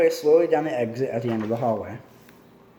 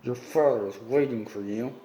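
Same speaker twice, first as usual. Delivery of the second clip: through clenched teeth; 2 semitones lower than usual. A narrator's reading. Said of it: "he said through his clenched teeth".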